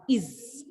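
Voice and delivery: "is" as a short unstressed ɪz ending; the "is" sound. Shown as a demonstration. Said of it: "the sound of final E S in the plural nouns is like this".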